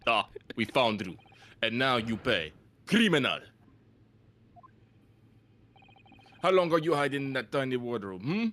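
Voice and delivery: put-on menacing Russian accent. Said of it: "a Russian accent".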